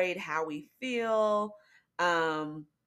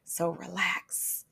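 relaxed, slow; 5 dB quieter, slower than usual. Shown as a demonstration. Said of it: "is Hebrew for relax".

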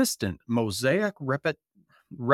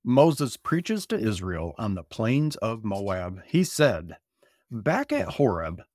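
measured scripture read-aloud. Acted. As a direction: read it like a sermon text.

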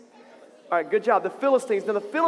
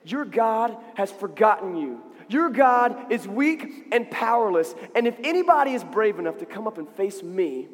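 taunting giant. Acted. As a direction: draw out the taunt, word by word. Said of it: "he was saying".

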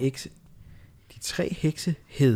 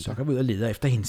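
faster witch voice; faster than usual. Acted. Witch Dumme repeats the search call, faster. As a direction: rattle it off lightly as a witch. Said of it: "noget mere veksling mellem dumme".

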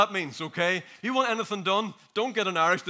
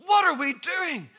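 slow, high, louder; louder repeat; 10 semitones higher, 6 dB louder, slower than usual. Real, not acted. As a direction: push the question harder.

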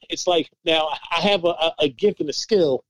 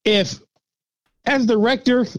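indignant employee; 4 semitones higher than usual. Retold or imitated. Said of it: "If, as director, I work for myself, I would quit".

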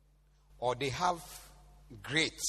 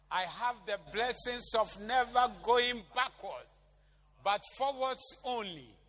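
bold declaration; 5 semitones higher than usual. Real, not acted. Congregation declares prayer aloud.

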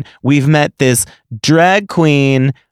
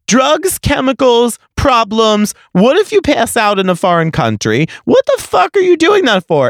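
high-pitched scolding parent rant, getting higher toward the end; crazy dad; 9 semitones higher than usual. Retold or imitated. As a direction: play the outraged dad grilling a teen, voice climbing. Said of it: "I became, like, a crazy dad on the dance floor".

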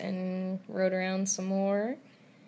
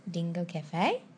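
put-on Australian accent. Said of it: "Okay, let me do this".

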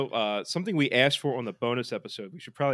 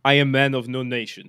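bad Russian accent; 7 dB louder than usual. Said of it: "bad Russian accent".

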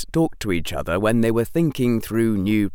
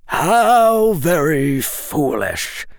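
slow, louder, cold dry scorn; 6 semitones higher, 6 dB louder, much slower than usual. A narrator's reading. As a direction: dismiss her like a fool. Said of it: "the man said dryly".

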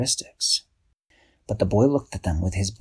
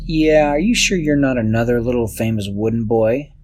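louder, sly teasing question; hint at Pinocchio slyly; cat playfully hinting at a famous wooden boy; 2 semitones higher, 5 dB louder than usual. Acted.

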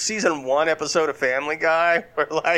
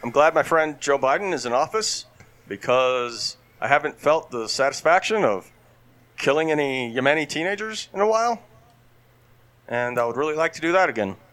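measured presidential impression with long pauses; Barack Obama. Comic praises Joe Biden as Obama, halting deadpan impression. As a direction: break the sentences up like a mock statesman. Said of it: "the key to talking like Barack Obama".

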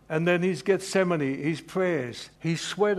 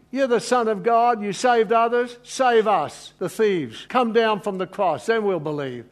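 loud, higher jeering taunt at the crucified; jeering mockers; 6 semitones higher, 6 dB louder than usual. Preacher voicing the mockers at the cross, loud jeering. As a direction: sneer it out like a crowd mocking.

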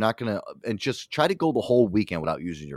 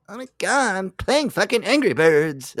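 much higher, slow whiny brat voice; bratty kid; 9 semitones higher, slower than usual. Retold or imitated. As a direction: whine like a spoiled kid glued to a game. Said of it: "they're scared of their kids".

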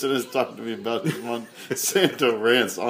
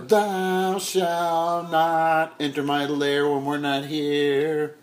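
mock dramatic voice; 7 semitones higher, 4 dB louder, much slower than usual. Mock decree about the movie.

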